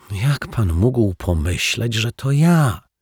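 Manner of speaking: high, slow mild reproach; gentle reproach. Acted. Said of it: "z łagodnym wyrzutem". (z łagodnym wyrzutem)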